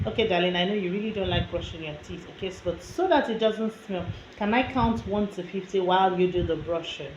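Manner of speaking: quick, understanding parent voice; nicer coaxing. Shown as a demonstration. Parent coaxing a child to brush teeth, nicer way. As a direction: coax a reluctant child kindly. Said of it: "a nicer way to get your child".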